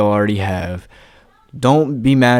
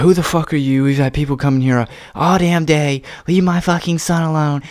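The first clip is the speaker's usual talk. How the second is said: retold yell, pitched up high; angry mom; 6 semitones higher than usual. Mother yelling at boys at her door, mock high angry. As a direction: mimic the mother snapping at strangers at her door. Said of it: "She's like".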